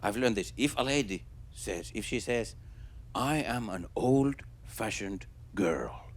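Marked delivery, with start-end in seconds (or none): 3.1-6.1 slow, hushed, deliberate delivery; softly drawn-out quote of a date; coded hint. Acted. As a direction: say it slowly and softly, like a secret code. Voicing a lady's coded dating line.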